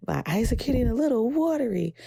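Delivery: emotional. Real, not acted. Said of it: "I'm getting very emotional".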